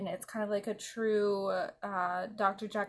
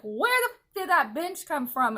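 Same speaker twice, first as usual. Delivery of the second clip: high, louder disbelieving demand; hammed-up bewilderment, pitched up at first; mock baffled outburst; 6 semitones higher, 5 dB louder than usual. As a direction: burst out high, easing down after. Acting out his baffled outburst.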